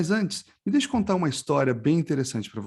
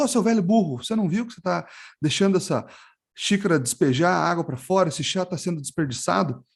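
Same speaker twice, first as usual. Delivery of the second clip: indignant scolding; 3 semitones higher than usual. Acted. Impatient lad to old sage spilling the tea, mock indignant. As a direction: scold in mild, acted outrage.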